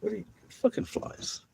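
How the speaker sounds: breathy whisper; whispered tease. Real, not acted. Whispering a tease at the dog catching flies.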